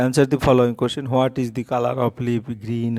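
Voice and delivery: slow, word by word like dictation; dictating a question slowly; slow read-aloud. Shown as a demonstration. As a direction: read it out slowly for pupils to copy. Teacher reads the question slowly.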